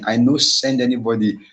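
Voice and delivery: "I no send anybody" said lightly in Pidgin; Nigerian Pidgin. Shown as a demonstration. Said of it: "I, I didn't send anybody".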